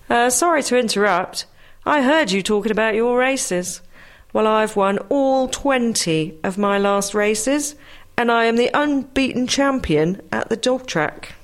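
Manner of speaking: greyhound voice. Acted. Greyhound voiced in told joke.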